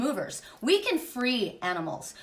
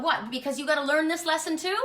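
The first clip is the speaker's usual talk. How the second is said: retold indignant challenge, higher at the end; mad, indignant; 4 semitones higher than usual. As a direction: throw it back at him, mildly mad. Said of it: "I was so mad at him".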